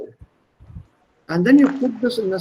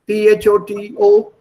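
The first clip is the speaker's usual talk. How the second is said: letters spelled out one at a time; 2 semitones higher, 5 dB louder than usual. Shown as a demonstration. Teacher spelling a word for students, letter by letter. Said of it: "das englische Beispiel".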